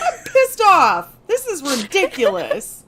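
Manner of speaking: mock anger. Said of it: "I'm like".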